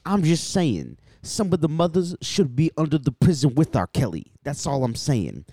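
A radio DJ. Retold or imitated. Co-host retells DJ talking about a singer, mock insistence. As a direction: imitate a DJ editorializing on air. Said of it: "He was like".

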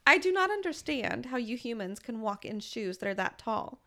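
flat robotic monotone, robot voice. Retold or imitated. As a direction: stiff machine delivery, robot voice. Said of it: "saying this in a very robotic voice".

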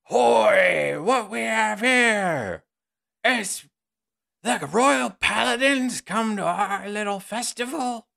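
high, slow folksy villager voice; a cheery country host greeting guests; festive villager. Acted. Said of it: "you hear a voice going".

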